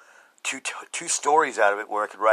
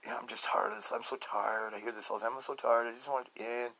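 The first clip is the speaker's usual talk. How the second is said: weary despair; 10 dB quieter than usual. Retold or imitated. Depressed person telling friend they want it to end, soft and weary. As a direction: sigh it like you have nothing left.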